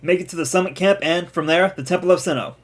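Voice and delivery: lightly voiced commander's orders; game commander giving orders. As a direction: count off the orders firmly, stressing the last. Reads Cyllene's orders in the game.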